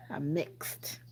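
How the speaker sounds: soft whispered repeat. Real, not acted. Streamer explaining her heritage to chat, whispered. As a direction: whisper it like a secret.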